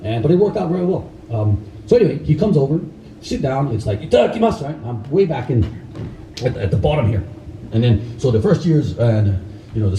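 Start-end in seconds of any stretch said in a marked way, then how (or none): 4.0-4.6 Japanese mealtime call. Retold or imitated. Ritual mealtime call before eating.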